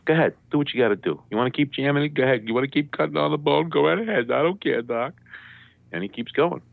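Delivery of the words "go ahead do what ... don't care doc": higher-pitched mock defiance; re-enacted tough-guy challenge; acting tough. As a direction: dare him to carry on, putting on bravado. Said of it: "So I get all tough".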